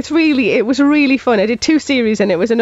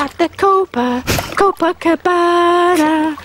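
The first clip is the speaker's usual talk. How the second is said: Geordie otter voice; 6 semitones higher than usual. Pretend. A Geordie otter on TV, crooning then shooing the camera away. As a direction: play a Geordie otter caught in the bath. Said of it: "pretends to be an otter and says things like this".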